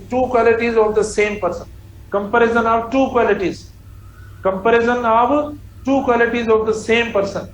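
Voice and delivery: each word spelled out very slowly; slow dictation. Shown as a demonstration. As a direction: dictate it slowly for the class to copy. Teacher dictating an example sentence. (धीमे-धीमे बोलकर लिखवाना)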